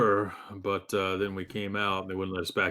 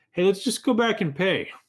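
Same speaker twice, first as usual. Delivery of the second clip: loud, high-pitched yell. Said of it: "I was gonna yell ahead to B".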